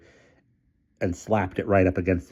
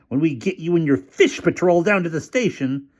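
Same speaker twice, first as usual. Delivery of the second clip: mild shout; 10 semitones higher, 3 dB louder than usual. A narrator's reading. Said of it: "shouted Featherstone over the din".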